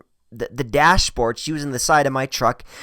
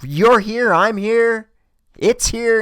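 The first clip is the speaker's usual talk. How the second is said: insistent persuading; 9 semitones higher, 5 dB louder, slower than usual. Retold or imitated. Retold persuading her to return.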